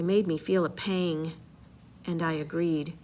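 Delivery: story narration, read aloud with energy; dramatic reading. Acted. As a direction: read the epic aloud to the class. Reads Odyssey aloud.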